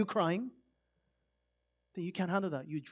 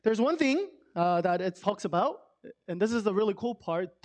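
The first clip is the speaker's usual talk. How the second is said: normal talking voice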